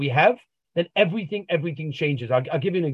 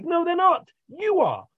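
punchline; 13 semitones higher than usual. Retold or imitated. Therapist's punchline.

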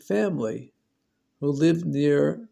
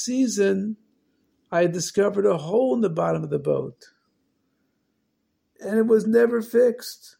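alarmed father; 6 semitones higher than usual. Acted. Father suddenly remembers the hole.

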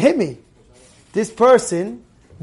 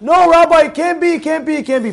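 loud, high opening cry; indignant mock outburst, easing slightly; retold screaming; 9 semitones higher, 6 dB louder than usual. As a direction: imitate a man publicly contradicting his rabbi. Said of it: "screaming out".

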